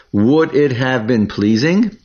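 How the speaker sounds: "pleasing" rising as a real question; question tune. Shown as a demonstration. Teacher reads the line as a question for students, rising at the end. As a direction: let "pleasing" climb at the end. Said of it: "We say this as a question".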